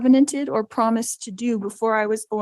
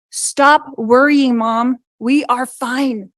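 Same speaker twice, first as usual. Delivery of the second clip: commanding; 4 dB louder, slower than usual. Retold or imitated. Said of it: "she commanded me".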